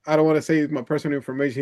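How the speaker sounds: fast, lightly imitated Indian accent. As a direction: rattle it off in a mock Indian accent. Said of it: "he has a thick Indian accent".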